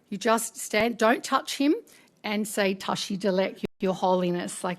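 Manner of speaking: softly spoken, measured guidance; calm instruction. Retold or imitated. Facilitator coaching producer on greeting His Holiness, calm. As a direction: imitate a composed colleague coaching.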